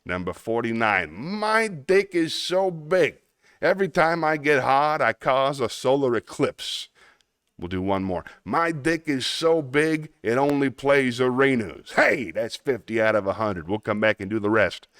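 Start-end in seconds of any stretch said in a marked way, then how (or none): 1.1-6.9 put-on Brooklyn accent. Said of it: "Yes, it's a Brooklyn accent". 8.4-11.9 put-on Brooklyn accent. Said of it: "Yes, it's a Brooklyn accent".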